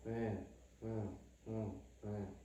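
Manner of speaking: soft, lazy 네 barely voiced; swallowed 네 with lips barely moving; mumbled wrong way. Shown as a demonstration. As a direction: mumble 네 and 응 like a sulky kid. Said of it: "이렇게 하지 마".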